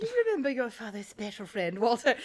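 mock innuendo, breaking into a laugh; euphemistic. Mocking a mother introducing her husband's friend, euphemistic. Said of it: "It sounds like a euphemism".

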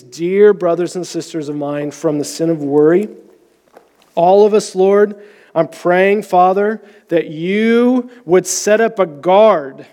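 steady, earnest praying voice; pastor's closing prayer. Acted. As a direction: pray over the congregation calmly.

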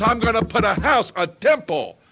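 preacher paraphrasing God's promise at full voice; preaching God's words. Acted. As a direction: shout the promise to the congregation. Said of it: "What he is saying is".

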